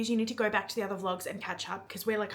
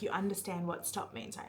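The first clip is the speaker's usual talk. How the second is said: quiet, close, intimate line; softly voiced love interest; 2 semitones lower, 8 dB quieter than usual. He asks her about safe words, softly and close. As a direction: murmur it as if leaning in close.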